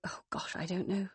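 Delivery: unvoiced, hushed "I don't know"; whispered. Mother dodging Megan's question, in a whisper. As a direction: let it slip out in a whisper.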